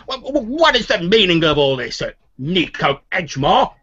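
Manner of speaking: high-pitched, stammering demand from a noblewoman; Lady Lascaris. Acted. Lady confronts the noble in her halls, high stammering demand. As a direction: stammer in high, startled indignation. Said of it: "Lady Lascaris is like".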